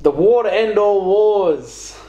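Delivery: hammed-up trailer voice; mock epic narration. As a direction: announce it like an epic war saga. Mock epic console war.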